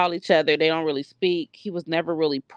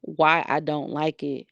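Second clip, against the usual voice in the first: lightly imitated child, measured and firm; grandson standing his ground. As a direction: quote a little boy calmly holding firm. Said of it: "This little boy said".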